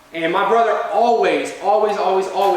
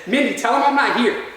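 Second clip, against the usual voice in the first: higher-pitched, urgent call at normal volume; retold holler; 4 semitones higher than usual. Dad fleeing to closet calls to mom, mildly hollered. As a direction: mimic a mild holler on the run. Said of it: "hollers at my mom".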